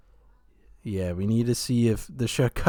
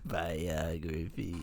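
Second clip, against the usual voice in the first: supervillain voice; 7 semitones lower, 10 dB quieter, slower than usual. Retold or imitated. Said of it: "You sound like a supervillain saying it that way".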